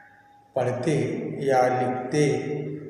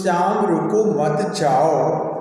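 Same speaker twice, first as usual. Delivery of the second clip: slow, connected "श्याम रुको मत जाओ"; "श्याम रुको मत जाओ" drawn out, with no comma; no punctuation pause; 3 dB louder, slower than usual. Shown as a demonstration. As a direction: stretch "श्याम रुको मत जाओ" slowly as one unpunctuated string. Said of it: "इसका कोई अर्थ नहीं निकला".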